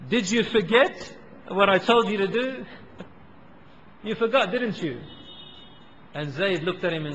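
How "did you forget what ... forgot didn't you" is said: laughing teasing. Retold or imitated. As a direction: tease him kindly through a chuckle. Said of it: "He was laughing".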